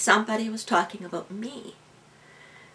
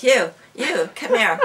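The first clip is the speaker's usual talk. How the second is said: teacher's mock summons, louder and higher; calling out; 3 semitones higher, 7 dB louder than usual. Teacher singling out a reluctant student in class, calling out. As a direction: call someone out of the crowd.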